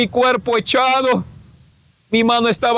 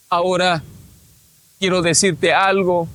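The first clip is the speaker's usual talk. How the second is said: lower, measured voice of God; the Lord speaking; 5 semitones lower than usual. Retold or imitated. The Lord has something to tell him, solemn voice of God. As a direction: speak as God, pitched down with pauses.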